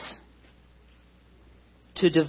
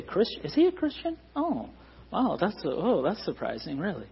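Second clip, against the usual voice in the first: mock surprise; 6 dB quieter than usual. Congregant mocking surprise that Ron is a Christian, mock astonished. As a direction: act amazed he's a Christian, half joking.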